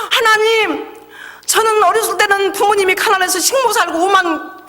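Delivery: anguished prayer. Retold or imitated. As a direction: plead with God in distress. Crying prayer to God.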